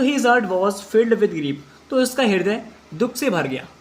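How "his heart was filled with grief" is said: very slow, word by word English; slow dictation. Shown as a demonstration. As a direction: spell it out slowly for the class. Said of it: "repeats sentence for class". (धीमे-धीमे बोलकर लिखवाना)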